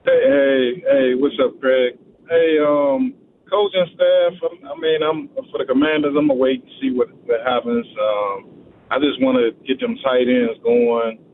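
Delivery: phone line audio; over the phone. Real, not acted.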